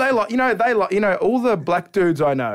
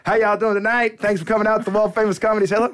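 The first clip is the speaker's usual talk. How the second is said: comedian; 4 semitones higher than usual. Retold or imitated. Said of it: "this bloke comes on stage".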